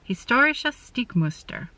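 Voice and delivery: "Historische Stickmuster" said carefully, stress on "stor" and "Stick"; German shop name. Shown as a demonstration. Stitcher attempting the German shop name "Historische Stickmuster". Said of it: "Maybe I'm a little closer with that".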